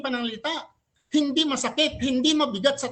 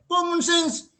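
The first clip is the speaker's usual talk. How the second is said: laughing; 6 semitones higher, slower than usual. Real, not acted.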